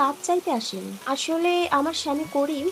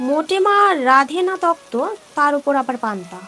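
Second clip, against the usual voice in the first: louder, sharp rebuke; angry scolding; 6 dB louder than usual. Acted. Mother scolds daughter complaining about the food, loud rebuke.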